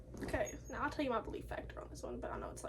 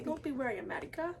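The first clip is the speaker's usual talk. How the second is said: a badly faked Russian accent; a hammed-up bad Russian accent; horrible Russian accent. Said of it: "with a horrible Russian accent".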